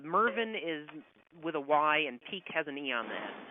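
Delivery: slow, deliberate dictation; slow spelling out. Real, not acted. Author spells a name for a fan on request, slow and careful. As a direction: spell it out slowly for someone writing it down. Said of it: "Say it again slowly".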